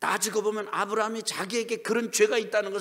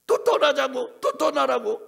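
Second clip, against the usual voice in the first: high, loud pleading call; shouted urging; urgent shout; 9 semitones higher, 10 dB louder, slower than usual. Retold or imitated. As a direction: cry it out urgently. Preacher voicing Abraham's urging.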